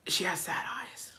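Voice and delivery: slow, near-whispered remark; hushed sympathy. Real, not acted. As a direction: let the voice drop away in pity. Dwells sadly on the widow's eyes.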